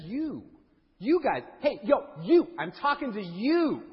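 single them out with short, emphatic calls; insistent calling out. Acted. Preacher voicing Jesus answering the doubting crowd, insistently.

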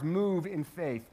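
"move" drawn out slowly; stress on move. Shown as a demonstration. Preacher urges overcomers to act in faith, stressing "move". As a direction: lean slowly on the word "move". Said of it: "Emphasis on the verb move".

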